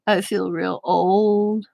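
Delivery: slow hushed mock whisper. Kelly complaining he feels old, slow mock whisper. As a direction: breathe it out like an old man's lament. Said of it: "he goes".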